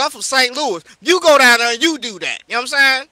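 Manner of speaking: loud, heated scolding; heated rant. Real, not acted. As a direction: push hard, call him out loudly.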